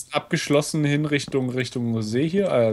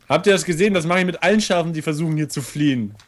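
gloating; 4 semitones higher, faster than usual. Real, not acted. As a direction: boast about the kill. Gloating after killing sheep. (triumphierend prahlen)

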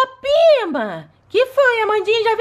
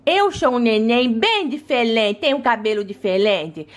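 put-on baby doll voice; 11 semitones lower than usual. Baby doll introduces herself.

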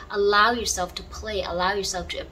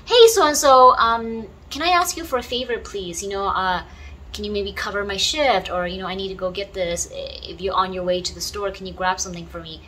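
nice and kind; 4 dB louder than usual. Shown as a demonstration. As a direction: ask a friend for a favor nicely. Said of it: "You would say it in a nice and kind way".

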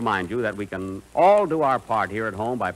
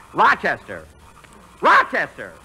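calling out; 5 dB louder than usual. Acted. Calling for missing Rochester.

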